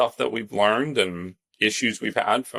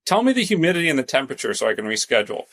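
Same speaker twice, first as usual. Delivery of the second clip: high-pitched mock complaint, raised voice; retold yelling; 10 semitones higher than usual. Complaining to the house cleaner about Memphis heat, mock yelling. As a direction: start high and exasperated, as if calling across rooms. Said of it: "in the other room, and I yelled".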